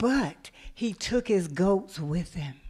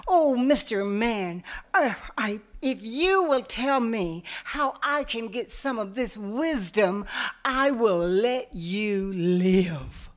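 tiger's menacing bargain; 6 dB louder than usual. Acted. Tiger threatens cornered man.

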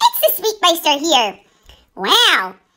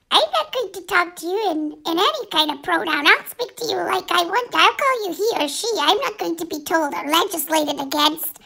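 quieter imitation of Jordan Peterson; mock Jordan Peterson; 2 semitones lower, 6 dB quieter than usual. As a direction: mutter it like a lightly mocked Peterson, softer than your own voice. Quoting Jordan Peterson mockingly.

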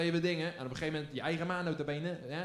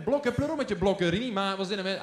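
boos kind; 3 semitones higher, 7 dB louder than usual. Retold or imitated. Child rejects blocks.

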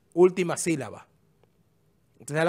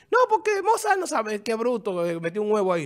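burla a la gente; 4 semitones higher than usual. Retold or imitated. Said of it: "La gente dice".

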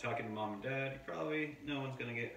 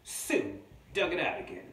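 lightly put-on Australian diary entries; attempted Australian accent; 8 semitones higher, 6 dB louder than usual. Adult reading a wombat's diary to children, slight Australian accent. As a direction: log it briskly in mild pretend Australian. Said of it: "not sure if this is a real Australian voice".

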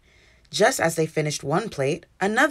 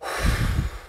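breathy wind gust. A narrator's reading. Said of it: "a strong gust of wind".

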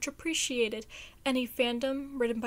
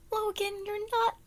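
higher, urgent protest; pleading protest; 8 semitones higher than usual. A narrator's reading. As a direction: cut in to contradict him. Patton protesting, much higher.

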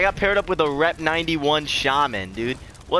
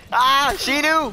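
surprised; 9 semitones higher, 3 dB louder, slower than usual. Real, not acted. Opponent reads his move.

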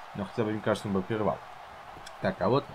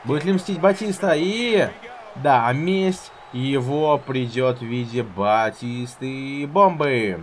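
hyped, drawn-out play-by-play; wrestling commentator; much slower than usual. Acted. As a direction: stretch the words like a ring announcer. Builds hype as commentator.

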